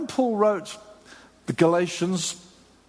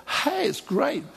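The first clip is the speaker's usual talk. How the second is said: high, cheery mock welcome; pitched-up imitation of a friendly hello; friendly greeting; 9 semitones higher, slower than usual. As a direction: greet them brightly, imitating a well-meaning visitor. Acts out the Judaizers' friendly greeting.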